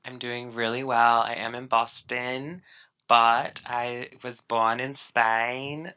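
badly attempted Spanish accent, drawn out at the end. Co-host introducing himself as born in Spain, bad Spanish accent. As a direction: try and fail at a Spanish accent. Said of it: "the worst Spanish accent I've ever heard".

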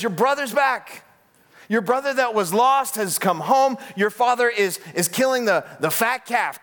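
acted-out worker's excitement; excited announcement. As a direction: share the good news eagerly. Worker announces the brother's return.

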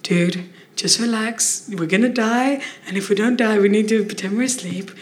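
a lightly hammed-up cool inner voice; jazzed-up inner voice. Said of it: "That's not how I sound to myself in my head".

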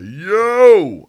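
loud, high call to a stranger; acted hailing shout. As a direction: holler across the store. Stranger hailing him in Wawa.

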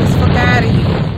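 New York accent demo. Shown as a demonstration. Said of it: "it sucks".

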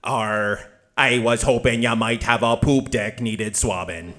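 gruff pirate robot. Acted. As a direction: growl it like an old sea pirate.

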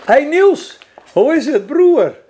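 loud cheerful greeting across the room; calling out. Real, not acted. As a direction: call out to a friend, laughing.

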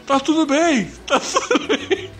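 high, laughing, deafened friend; too loud because he can't hear; talking loudly. Retold or imitated. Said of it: "E falando altão, porque ele tava surdo".

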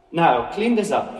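a mild hammed-up boss giving orders; supervisor's order. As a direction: bark it at the workers.

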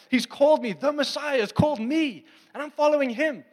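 loud, high, thrilled cry of being chosen; excited disciples. Retold or imitated. Disciple exulting to the crowd, loud and high. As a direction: burst out like a thrilled follower.

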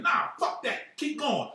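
high voiced imitation of a friend; imitating her. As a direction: pitch up to play her. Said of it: "And she was like".

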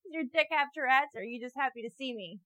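mocking a creep; mock catcall reply. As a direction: tease him like a heckler on the street. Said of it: "It's like".

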